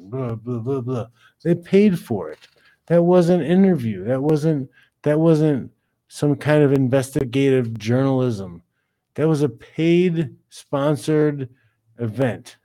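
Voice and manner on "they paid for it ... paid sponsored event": ranting. Real, not acted. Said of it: "I'm sorry, I'm ranting".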